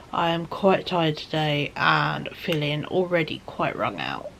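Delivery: normal talking voice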